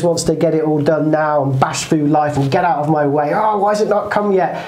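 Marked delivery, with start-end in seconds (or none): 3.3-4.6 impatient shark. Acted. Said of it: "So here's Sharky".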